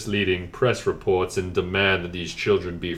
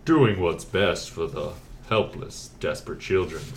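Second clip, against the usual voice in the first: lower voice; 3 dB quieter than usual. Acted. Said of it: "Little lower".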